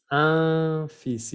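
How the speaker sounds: "un fils" as "un feess", S sounded; pronunciation demo. Shown as a demonstration. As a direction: say "un fils" deliberately, silent L, clear final S. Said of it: "esa palabra se pronuncia".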